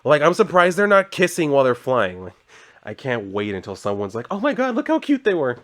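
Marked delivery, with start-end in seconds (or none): 4.3-5.6 high-pitched mock gushing over a cute couple; gushing onlooker. Reader mimics someone cooing over flying couple, mock gushing. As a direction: imitate an onlooker squealing over lovebirds.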